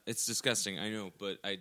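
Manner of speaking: low burpy mumble; talking while burping. Real, not acted. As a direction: let a burp roll under the words. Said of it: "I don't think it's disgusting".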